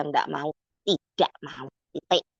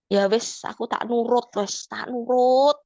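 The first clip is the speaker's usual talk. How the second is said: pleading surrender; 5 semitones higher than usual. Retold or imitated. Tearful surrender prayer, Javanese.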